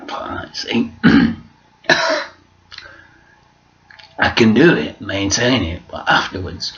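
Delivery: hoarse croaky voice; croaky throat; frog in throat. Real, not acted. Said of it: "frog in said throat".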